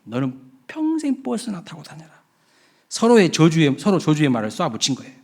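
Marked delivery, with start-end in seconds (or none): 0.0-2.1 higher, softer mocking curse; sneering retort. Bus driver's curse repeated to the passenger. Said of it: "그렇게 이야기한 거예요".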